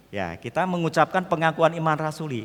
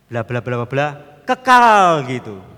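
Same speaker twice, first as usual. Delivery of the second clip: mock mumbled recitation; 10 dB louder, slower than usual. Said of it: "yang jelas itu cuma kata pertama dan kata yang terakhir".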